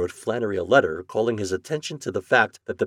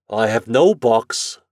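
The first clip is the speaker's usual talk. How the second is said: slow, louder, firm denial; cold refusal; 2 semitones higher, 7 dB louder, much slower than usual. A narrator's reading. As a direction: refuse him coldly and deliberately. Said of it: "said Flannery coldly".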